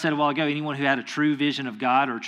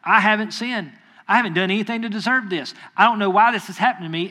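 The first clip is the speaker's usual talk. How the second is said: whining Job; 4 semitones higher, 4 dB louder than usual. Retold or imitated. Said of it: "Job is sitting there whining".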